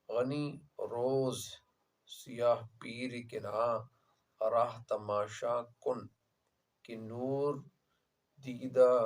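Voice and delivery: slow, word-by-word reading of a couplet; Persian verse recitation. Acted. Teacher quoting the closing Persian couplet to students, slow recitation. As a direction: recite it haltingly, phrase by phrase with long pauses.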